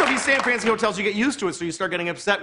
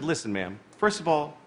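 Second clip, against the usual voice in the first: mock-stern complaint, low and measured; really mad; 10 semitones lower, 4 dB quieter than usual. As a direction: lay down the law to ma'am, pitched low. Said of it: "So I got really mad".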